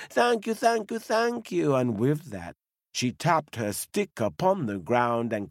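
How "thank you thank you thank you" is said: put-on grateful old lady. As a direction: gush with relief like a tiny granny. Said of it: "said the old lady".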